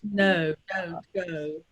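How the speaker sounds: relaxed RP with easy rounded O; understated general British accent. Shown as a demonstration. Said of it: "a bit more relaxed".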